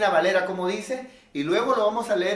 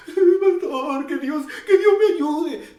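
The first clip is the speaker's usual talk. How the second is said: much higher, louder whining plea; whiny plea; 11 semitones higher, 7 dB louder, slower than usual. Retold or imitated. Anxious member whining to the pastor, much higher. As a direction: whine like an anxious church member.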